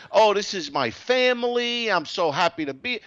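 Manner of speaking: sarcastic sweet imitation; mock the gushing posters; mocking Facebook gush. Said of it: "people on Facebook ... talking about".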